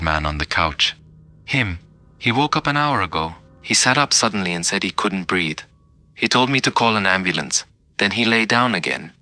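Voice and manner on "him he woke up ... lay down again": a lightly voiced old man, pitched higher; a hint of a scared old man insisting; frail old man. Old man telling the paramedics the corpse asked for help, pitched higher.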